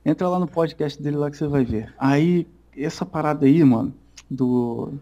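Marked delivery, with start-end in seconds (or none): 2.0-4.9 losing the thread, slowing to a stop; words drifting off mid-thought; trailing off. Real, not acted. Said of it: "Falou besteira e esqueceu o que ia falar lá".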